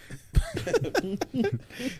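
high squeaky laugh; voice-cracking laugh. Real, not acted. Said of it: "See how his voice cracked right there?".

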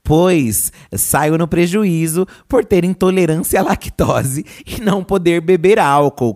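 slow, loud, deliberate reading of a follower's post; reading a comment aloud. Acted. Host reads a follower's bill-splitting rant to listeners, slow and loud. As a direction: spell out the complaint for the audience, slowly.

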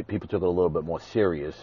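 rushing, words tumbling out; talking a mile a minute; pressured rushing speech. Real, not acted. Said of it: "I apologize for my fast rate of speech".

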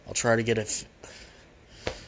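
built-in laptop mic sound; recorded without a proper mic; bad mic quality. Real, not acted. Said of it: "sorry for the bad mic quality".

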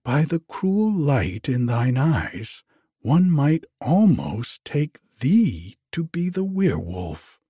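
a hint of alarm, rising on the key words; uneasy maiden. Iseult to Harold about his strange eyes, mildly alarmed.

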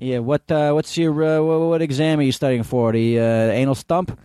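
put-on New York accent. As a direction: lean into the New York wise guy. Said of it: "your New York accent".

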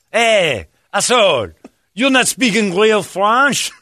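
high, loud, slow accusation; angry callout. Retold or imitated. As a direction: yell it at the fake Frenchman. Homeless guy calling out.

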